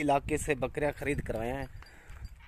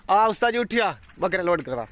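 raised, higher call across the farm; 4 semitones higher, 5 dB louder than usual. Real, not acted. Farmer calling his worker to load the goats, loud call. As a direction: shout over to the worker to get moving.

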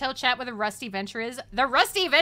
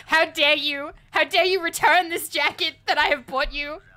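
hammed-up indignation, higher and louder; playfully outraged retelling; mock outrage; 3 semitones higher, 5 dB louder than usual. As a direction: act out an over-dramatic scolding. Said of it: "I was so upset in the dream".

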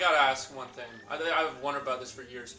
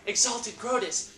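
minion voice; 4 semitones higher than usual. Acted. Acting X-Naught minion line.

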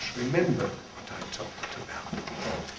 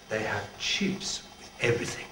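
put-on French accent; 3 semitones lower, 5 dB quieter than usual. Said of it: "with a beautiful accent".

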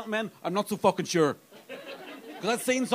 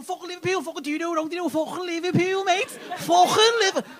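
mocking Liverpool rant; 10 semitones higher, 4 dB louder than usual. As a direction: pile on the scorn like a bloke down the pub. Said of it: "People go".

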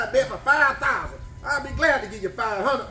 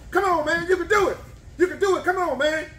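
a fan egging on a contestant; cheering on; 6 semitones higher than usual. Real, not acted. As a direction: urge the eater on to beat the clock. Cheering eater to finish.

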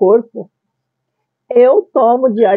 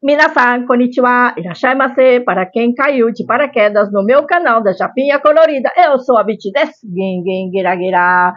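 cute anime streamer; 2 semitones higher than usual. Acted. Japanese-style cute channel greeting.

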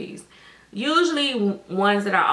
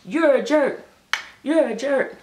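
playful teasing; 6 semitones higher, 5 dB louder than usual. Real, not acted. Playful teasing back and forth.

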